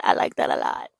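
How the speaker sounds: breathy delighted whisper; hushed, pleased whisper. Real, not acted. Whispered repeat of own reaction.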